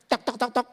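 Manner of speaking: light tapping knocks by voice; knocking sound. Retold or imitated. Devil knocks again the next morning, imitated knocking. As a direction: mimic knocking, tok tok. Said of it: "Diulangin lagi".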